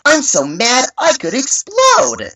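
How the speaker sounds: high, slow, cheerful cartoon kid; fail at mad, sounding sweetly delighted; too-happy child read. Shown as a demonstration. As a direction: announce it in a high, drawn-out happy voice. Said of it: "I would read it like this".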